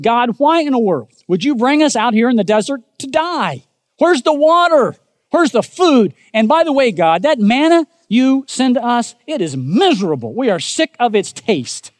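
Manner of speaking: high, loud whiny complaint to God; hammed-up whining of ungrateful people; grumbling Israelites. The Israelites complain to God about water and food, mock whining. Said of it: "they're grumbling like they always grumbled".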